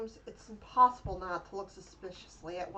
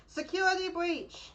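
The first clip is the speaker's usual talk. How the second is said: slow, higher robot voice alarm; 9 semitones higher, slower than usual. Acted. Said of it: "a mechanical voice rings out".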